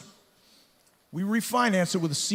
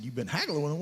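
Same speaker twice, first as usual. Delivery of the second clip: incredulous echo; 2 semitones lower, 4 dB quieter than usual. Retold or imitated. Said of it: "I said".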